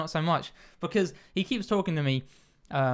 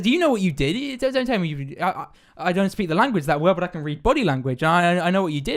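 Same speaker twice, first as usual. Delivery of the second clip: raised-voice mock accusation; a bit aggressive; 3 semitones higher, 4 dB louder than usual. Taxi driver accuses puzzled passenger, a bit aggressive. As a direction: imitate a driver pressing an accusation, louder. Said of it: "starts getting a bit aggressive".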